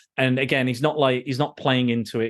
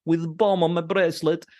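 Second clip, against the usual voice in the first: mocking a party girl telling her sad story; mock sad backstory; 5 semitones higher than usual. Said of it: "she's like".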